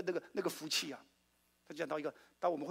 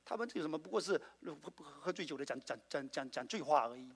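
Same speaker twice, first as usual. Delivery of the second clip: mocking sneer; 5 dB quieter than usual. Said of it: "还有人笑他们说".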